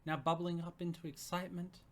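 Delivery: steady storytelling read; narrating a romance story; story narration. A narrator's reading. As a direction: read the scene aloud to listeners. Reads story narration aloud.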